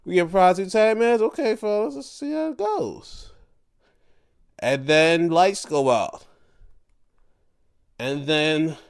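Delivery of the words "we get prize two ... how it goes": excited fan. Retold or imitated. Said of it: "I was like".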